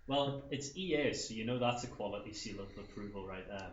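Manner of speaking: understated sarcasm, dropping away at the end; dry sarcasm. Real, not acted. Gamer mocking E A's quality to co-hosts, dryly sarcastic. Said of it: "you sounded very dry there".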